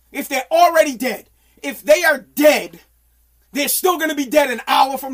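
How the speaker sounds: exasperated shout. Real, not acted. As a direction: rant at the family. Ranting about being woken.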